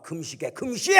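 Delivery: high, loud one-word command; sudden loud yell ordering a fast; shouted order. Retold or imitated. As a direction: bark the single word like a drill sergeant. Pastor barking order to fast.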